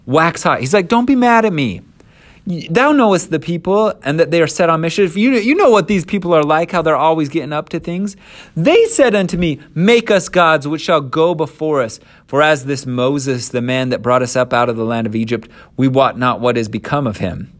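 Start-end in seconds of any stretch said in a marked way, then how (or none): 0.0-0.6 defensive Aaron. Acted. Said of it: "And Aaron says this". 0.9-17.5 high, quick, loud protesting; defensive Aaron. Acted. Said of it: "And Aaron says this".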